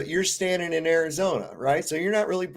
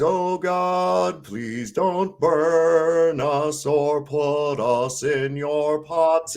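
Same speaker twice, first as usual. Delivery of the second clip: slow, drawn-out mock prayer; Python prayer voice; much slower than usual. Mock-praying to God in the hymn, slow. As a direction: plead slowly like a cowering worshipper. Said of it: "where he's".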